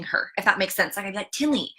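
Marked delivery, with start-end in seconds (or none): 1.3-1.7 put-on slightly higher, hushing a child. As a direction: shush your daughter, a little impatient. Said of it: "that right there is me speaking death".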